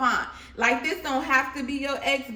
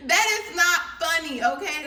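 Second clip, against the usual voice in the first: mock protest; 4 semitones higher, 4 dB louder than usual. Real, not acted. Laughing protest.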